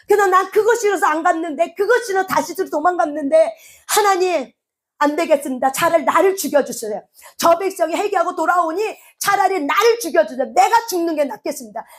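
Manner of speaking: acted high-pitched, aggrieved pleading; angry protest. Jonah, angry at Nineveh's pardon, begs God to let him die, angry protest. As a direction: protest to God as a man who can't stand it. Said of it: "화가 난 상태에서 하나님 앞에 막 항변하는 거야".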